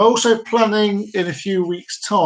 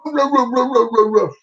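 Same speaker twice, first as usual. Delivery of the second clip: mock dog bark, a little higher; playful woof imitation; 5 semitones higher than usual. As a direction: yap like the dogs. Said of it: "the dogs round us today going".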